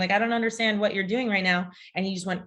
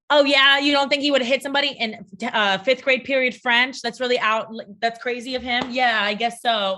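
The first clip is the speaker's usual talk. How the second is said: sarcastic mock agreement; 3 dB louder than usual. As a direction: pretend to concede while rolling your eyes.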